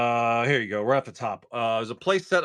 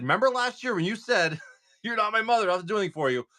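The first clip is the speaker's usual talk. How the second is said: teasing through a laugh; 9 semitones higher, 5 dB louder than usual. Retold or imitated. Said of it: "And so I said".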